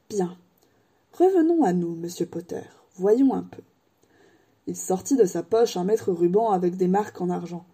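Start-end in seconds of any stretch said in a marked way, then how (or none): 0.1-3.6 lightly voiced, wistful old wandmaker; a hint of an old craftsman remembering. Ollivander remembers Harry's mother, lightly voiced old man.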